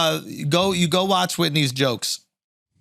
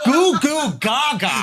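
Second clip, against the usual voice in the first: put-on baby talk; 8 semitones higher, slower than usual.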